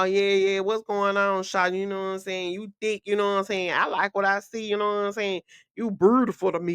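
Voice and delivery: lightly voiced smooth-talking suitor; a hint of a street flirt, run together; mock pickup talk. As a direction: imitate a man running his pickup lines. Acting out a man's pickup talk.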